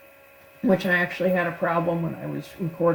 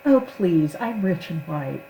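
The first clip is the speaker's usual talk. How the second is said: haughty line read. Retold or imitated. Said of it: "where the script said".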